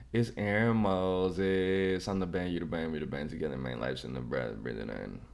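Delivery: long, steady slide down in pitch; sign-off catchphrase. Real, not acted. Drawn-out sign-off catchphrase on falling pitch.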